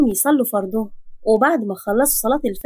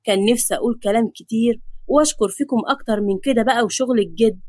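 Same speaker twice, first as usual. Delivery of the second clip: put-on old grandfather's fond, lower voice; lightly voiced affectionate patriarch; loving; 3 semitones lower than usual. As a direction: bless the family with gentle affection. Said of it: "بص لهم بحب وقال".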